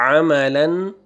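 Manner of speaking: अमलन begun with a pharyngeal Arabic ayn; throaty ayn. Shown as a demonstration. Teacher repeating अमलन for learners, first vowel made as a throaty ayn. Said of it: "आइन पढ़ना है आपने".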